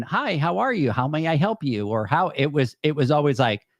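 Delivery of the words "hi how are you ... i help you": bright, lifted welcome, pitched up; chirpy friendly greeting. Retold or imitated. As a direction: greet the guest like you mean it. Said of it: "You're not going".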